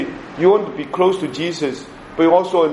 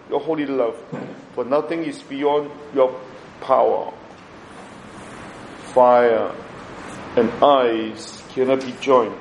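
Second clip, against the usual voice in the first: prayer reading. Acted. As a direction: pray it with reverence. Prays the novena prayer.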